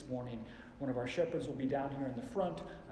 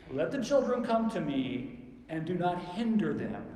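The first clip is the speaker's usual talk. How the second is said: louder, emphatic command; firm raised voice; 3 semitones higher, 6 dB louder than usual. Acted. Jesus correcting his disciples, firm raised voice. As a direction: order them firmly, voice raised. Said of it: "I think that's exactly how he said it".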